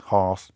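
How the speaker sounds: "Harse" back down low, long ah; estuary vowel. Shown as a demonstration. Host practising estuary house, low falling "Harse". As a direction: settle on a low "Harse" with open ah. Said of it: "house becomes harse".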